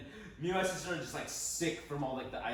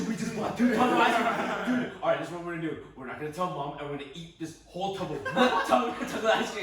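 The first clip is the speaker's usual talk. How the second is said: excited panic; 6 semitones higher, 9 dB louder than usual. Retold or imitated. Kids panicking over ice cream.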